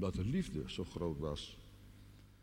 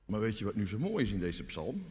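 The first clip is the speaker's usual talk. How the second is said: ordinary talk, nothing marked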